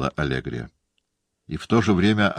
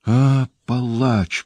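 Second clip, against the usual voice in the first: slow, louder, higher anguished groan of words; moaning; 7 semitones higher, 4 dB louder, much slower than usual. A narrator's reading. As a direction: drag the accusation out in pain. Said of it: "простонала Люсиль".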